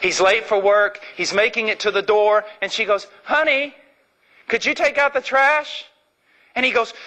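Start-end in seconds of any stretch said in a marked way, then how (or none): 3.2-5.8 mock sweet wife voice, much higher; hammed-up wife pleading over the trash; asking wife. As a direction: put on the wife's sugary ask.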